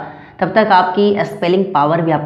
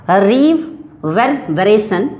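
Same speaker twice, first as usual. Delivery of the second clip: very slow रिवरबरेशन, broken into parts; sound demonstration; much slower than usual. Shown as a demonstration. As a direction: draw out रिवरबरेशन syllable by syllable. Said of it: "sound को पहले गौर से सुनेंगे आप".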